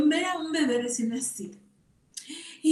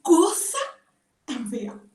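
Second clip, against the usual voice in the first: slow, drawn-out mock dismay; shocked at old photos; 3 semitones higher, slower than usual. Grandmother seeing her newborn's old photos, slow mock shock. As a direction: recoil in mock horror, slowly. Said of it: "y dije".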